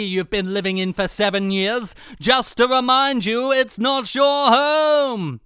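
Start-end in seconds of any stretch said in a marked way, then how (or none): 2.2-5.4 sinister. Acted. Landlord's menacing reminder.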